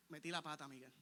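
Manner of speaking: low, subdued admission; quiet confession. Acted. Someone admitting a mistake to Miguel, quiet confession.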